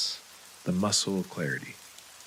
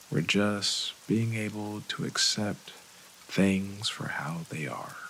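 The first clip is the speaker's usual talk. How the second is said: calm, unhurried meditation guide, leaving long pauses; guided meditation. Acted. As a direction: ease listeners gently through breathing and relaxing.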